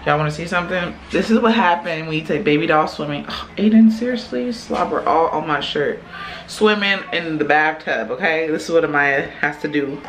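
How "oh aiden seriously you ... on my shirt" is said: mock exasperation. Real, not acted. Baby slobbers on her shirt.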